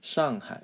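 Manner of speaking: "Shanghai" as shahng-hai; Mandarin-style "Shanghai"; correct pronunciation. Shown as a demonstration. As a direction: say "Shanghai" with an open ah, falling first syllable. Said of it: "how to say it".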